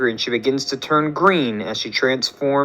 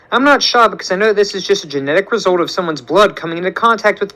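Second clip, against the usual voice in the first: higher, quick know-it-all voice; know-it-all kid; 5 semitones higher than usual. Acted. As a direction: rattle off facts like a teen genius. Amadeus voiced, know-it-all lecture.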